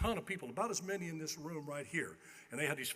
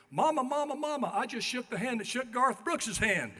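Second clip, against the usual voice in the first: put-on higher, louder child shouting to mom; excited kid; 9 semitones higher, 6 dB louder than usual. Kid shouting to his mother about the handshake, high and loud. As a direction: call out thrilled like a small boy. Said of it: "I hear him go".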